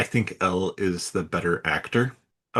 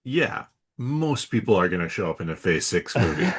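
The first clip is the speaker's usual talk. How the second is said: dry, dismissive comeback; unimpressed; 3 semitones lower than usual. Real, not acted. Host answers his own mimicked reaction, unimpressed. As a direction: wave the rumour away as obvious.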